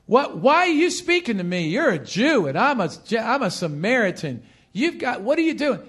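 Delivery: lightly acted indignant questioning; a little attitude. Preacher as Samaritan woman questioning a Jew, mild attitude. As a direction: challenge him with a touch of sass. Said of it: "she probably said it with a little bit of attitude".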